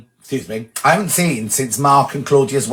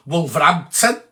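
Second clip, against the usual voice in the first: lightly put-on local Wolverhampton accent; a touch of mock Wolverhampton accent. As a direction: say the town in its own accent. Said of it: "Don't know why I do that accent".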